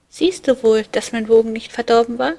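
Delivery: put-on high, loud, boastful child's voice; cheeky little boy. A narrator's reading. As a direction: brag like a mischievous little cupid. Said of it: "lachte ganz laut". (hohe, laute, prahlerische Kinderstimme)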